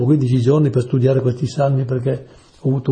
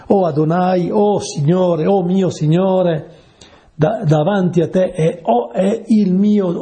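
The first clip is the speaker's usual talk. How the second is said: prayerful invocation; 4 semitones higher than usual. Acted. Prayerful recital of psalm.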